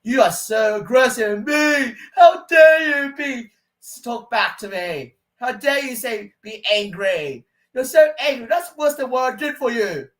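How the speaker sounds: high, loud mock shouting at the start; imitated angry outburst. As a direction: rant back like an offended accuser. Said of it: "they're gonna say".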